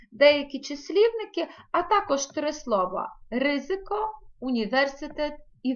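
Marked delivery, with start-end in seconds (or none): 3.3-4.1 "ризико" stressed on the first syllable, RY; exceptional Polish stress. Shown as a demonstration. Teacher listing exceptions to the stress rule, first syllable stressed. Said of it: "не згідно правил розставляються". 4.4-5.3 "університет" stressed on VER; exceptional Polish stress. Shown as a demonstration. Teacher listing exceptions to the stress rule, stress on VER. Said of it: "не згідно правил розставляються".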